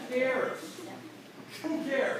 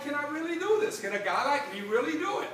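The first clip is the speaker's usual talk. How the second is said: doubtful self; 6 semitones higher than usual. Retold or imitated. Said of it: "I'm like".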